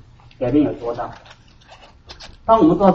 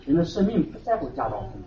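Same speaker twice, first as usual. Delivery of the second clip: much softer 人的生命不在乎家道丰富, 在 stressed; Jesus' words softly; 2 semitones lower, 13 dB quieter than usual. Shown as a demonstration. Preacher quoting Jesus to the flock, soft and falling. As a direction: drop the voice to a hush on 不在乎. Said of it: "可是耶稣说".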